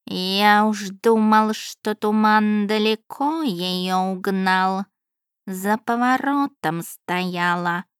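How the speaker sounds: a cat calling out in a drawn-out voice; talking cat calling. Acted. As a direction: Barsik the cat shouts to his mistress, slow. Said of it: "крикнул Барсик".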